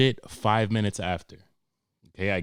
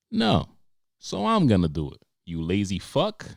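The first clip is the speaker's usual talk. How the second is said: daughter; 4 dB louder than usual. Pretend. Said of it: "daughter voiced".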